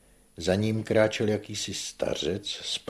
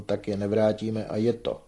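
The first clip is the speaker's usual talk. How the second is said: higher, louder dry dismissal; dry retort; 4 semitones higher, 6 dB louder than usual. A narrator's reading. Manon refuses to repay the debt, dry retort. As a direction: close the matter drily and firmly. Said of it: "řekla suše Manon".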